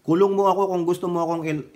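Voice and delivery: natatawa habang naghahamon, mas malakas; tumatawang hamon. Pretend. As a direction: sabihin nang may tawa, parang nanunukso. Taunting Tulfo, laughing. (tumatawang panunukso kay Tulfo)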